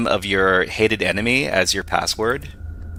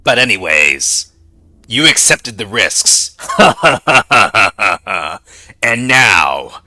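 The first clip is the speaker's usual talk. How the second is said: scary hacker voice; 3 dB louder than usual. Pretend. Holding the hacker persona voice.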